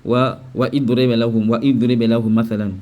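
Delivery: "wa idribe" with the "i" sounded after wa; low recital of "wa idribe", hamza pronounced; common misreading. Retold or imitated. Teacher imitates many readers' mistake, hamza sounded. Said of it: "beaucoup de gens disent".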